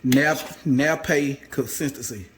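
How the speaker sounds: nappe spelled out slowly as nap-pe. Shown as a demonstration. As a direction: slowly sound out the word nappe. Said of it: "This is called".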